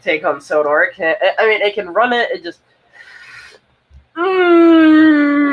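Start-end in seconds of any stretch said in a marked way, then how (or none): 4.2-5.5 high, drawn-out whining hum; frustrated whine. Real, not acted. Streamer groaning at a struggling tablet, high whine. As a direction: let out a long, high "mmm".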